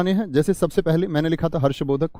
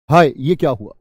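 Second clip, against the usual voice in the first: दुख; 7 dB louder than usual. Shown as a demonstration. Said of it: "दुख का भाव है".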